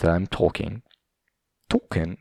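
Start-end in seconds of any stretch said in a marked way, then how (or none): 1.7-2.2 British pronunciation of one word; British accent. Shown as a demonstration. Podcaster pointing out his own slip, British accent. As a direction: echo it with a British vowel. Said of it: "It's like this British pronunciation".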